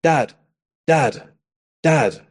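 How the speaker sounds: lightly voiced kid repeatedly calling for attention; repeated short falling calls, spaced by pauses; child calling dad. Son calling his dad who is watching TV, lightly imitated nagging. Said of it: "Like, I used to say".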